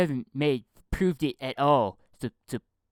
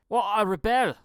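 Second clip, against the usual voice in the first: louder, cocky "Well, I rebel"; with attitude; 8 semitones higher, 5 dB louder than usual. Shown as a demonstration. Showing how a punk should say the line, cocky. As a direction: give it some swagger. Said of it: "should be like".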